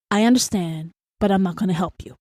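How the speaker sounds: calm, measured refusal; polite restraint. Acted. What her mouth says while her head rages, polite restraint. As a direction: hold back the rant and decline evenly. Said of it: "But my mouth is saying".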